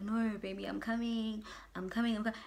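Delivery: imitating a boyfriend's soft sweet-talk; retold soothing reassurance. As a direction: placate her softly, as if quoting him. Boyfriend stalling her with reassurances.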